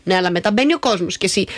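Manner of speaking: usual speaking voice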